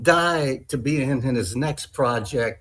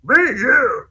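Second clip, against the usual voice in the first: much higher, strained Yoda voice with inverted words; 12 semitones higher, 5 dB louder than usual. Pretend. Actor reads the audition line in a Yoda voice. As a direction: do a squeaky Yoda. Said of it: "like, Yoda".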